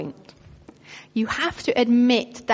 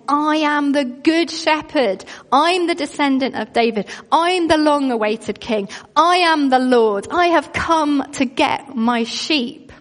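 preaching Jesus' claims; 2 semitones higher than usual. Acted. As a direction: proclaim it as Jesus, building to I am the Lord.

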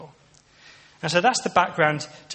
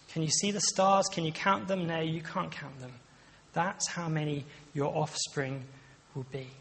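softer and softer, slowing toward the end; tender God; 5 dB quieter than usual. Retold or imitated. God showing Abraham the stars, hushed and tender. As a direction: hush it like a promise under the stars. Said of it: "this really beautiful, um, scene".

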